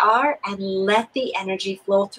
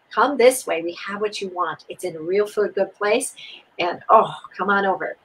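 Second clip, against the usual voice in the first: inviting inner voice. Retold or imitated. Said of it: "your inner being is all over it".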